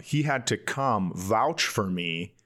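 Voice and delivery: usual speaking voice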